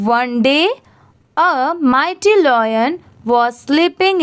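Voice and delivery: slow, careful read-aloud with pauses at commas; slow story reading. Shown as a demonstration. Teacher demonstrates reading the story slowly to students. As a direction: read each phrase slowly for learners.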